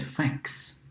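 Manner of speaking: "fax" whispered with no voice; whispered demo. Shown as a demonstration. Teacher whispers the word fax. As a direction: breathe out "fax" softly. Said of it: "we say it".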